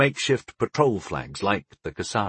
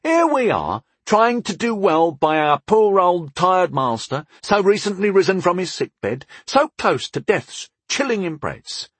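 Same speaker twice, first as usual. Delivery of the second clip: high, melodramatic mock lament; mocking moan; 8 semitones higher, 3 dB louder than usual. A narrator's reading. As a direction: wail like a put-upon martyr, drawing out the woe. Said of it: "Tyndall moaned mockingly".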